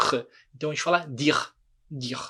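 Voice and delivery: "dire" as deer, rasped R ending; French "dire" with silent E; ends on R. Shown as a demonstration. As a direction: stop "dire" on the throaty R. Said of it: "a consoante que vier antes".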